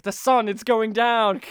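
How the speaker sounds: slow, lightly voiced lizard creature; a hint of cold-blooded menace, drawn out; lizard man. Host voices actor on plane, mild lizard-man voice. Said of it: "He's like".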